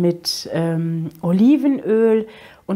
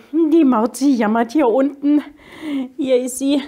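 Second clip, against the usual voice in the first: talking to cat; 6 semitones higher, 4 dB louder than usual. Real, not acted. Talking to her whining cat.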